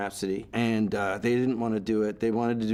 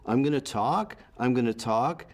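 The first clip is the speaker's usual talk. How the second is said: Canadian rise on talk; rising tune demo. Shown as a demonstration. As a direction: talk lifted at the end of each phrase. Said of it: "it's called the Canadian rise".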